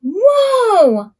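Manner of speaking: playful dizzy exclamation; dizzy whoa. Acted. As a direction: call out as if spinning.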